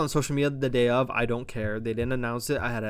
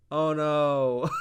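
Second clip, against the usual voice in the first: laughing fake oh no. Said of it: "the fakest "oh no".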